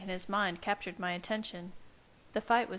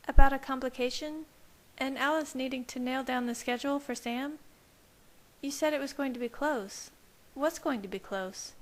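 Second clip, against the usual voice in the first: lightly voiced young woman, higher, pressing for answers; a hint of a suspicious girlfriend, opening with a louder burst; Bella's voice; 5 semitones higher, 4 dB louder than usual. A narrator's reading. Lightly voiced Bella pressing her partner about the danger.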